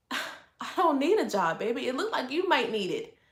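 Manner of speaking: sigh, then say it softly and unbothered; a soft, sighing brush-off. Shown as a demonstration. To the couch critic, a soft sighing brush-off. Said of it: "So now I'm using this voice".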